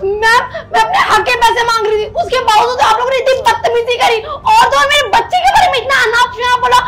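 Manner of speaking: tearful, indignant outburst. Acted. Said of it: "आवाज नीचे रख के बात कर".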